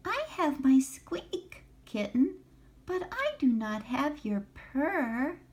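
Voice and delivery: high-pitched, squeaky little mouse voice; nervous mouse. A narrator's reading. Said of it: "said Mouse nervously".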